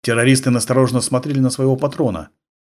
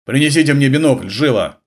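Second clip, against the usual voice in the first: growled order; 3 semitones higher, 3 dB louder than usual. Acted. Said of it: "рыкнул главарь".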